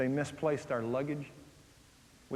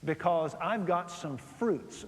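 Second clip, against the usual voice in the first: seductive invitation; slower than usual. Acted. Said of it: "And she says".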